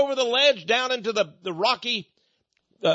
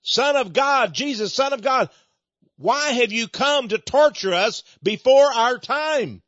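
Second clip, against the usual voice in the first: higher-pitched preacher's imitation of demons; crying out; 4 semitones higher than usual. Demons protesting to Jesus about coming torture, acted crying out. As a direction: cry out in mock alarm, drawing out the words. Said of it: "the demons in the man cried out".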